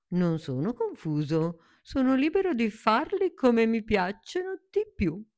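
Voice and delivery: high spirited flower insisting; proud little flower. Acted. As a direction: declare it with cheeky pride. New flower answers proudly.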